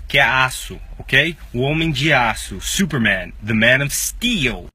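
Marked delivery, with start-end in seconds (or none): 3.5-4.7 "steel" with a long ee, said slowly; slow clear steel. Shown as a demonstration. Teacher modelling "the man of steel" for students. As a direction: stretch the ee in "steel". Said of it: "o E A do steel tem o mesmo som".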